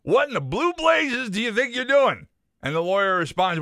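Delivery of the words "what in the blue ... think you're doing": put-on gruff old farmer. Farmer voiced in told joke.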